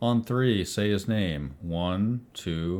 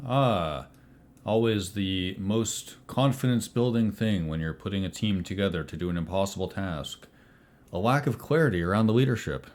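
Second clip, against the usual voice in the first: understated, dry sarcasm; lightly sarcastic in-character remark; faster than usual. Acted. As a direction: needle the team with mild sarcasm. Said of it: "Why are you so sarcastic".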